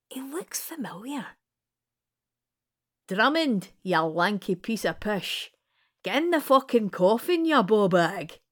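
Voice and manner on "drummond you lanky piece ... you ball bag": loud, rough-edged insults hurled across the room; nun shouting. Acted. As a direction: yell it at him, half laughing. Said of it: "the nun shouts".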